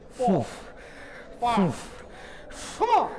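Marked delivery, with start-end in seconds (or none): 2.8-3.1 loud gym yell; shouted encouragement. Real, not acted. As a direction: bark it at the lifter. Spotter yelling encouragement.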